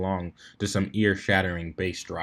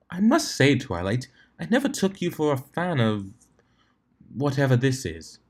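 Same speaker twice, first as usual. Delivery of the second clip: lightly voiced Rarity; 3 semitones higher than usual. Rarity remarking to her head-bobbing friend, lightly voiced. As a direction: play her gently amused by Twilight's taste.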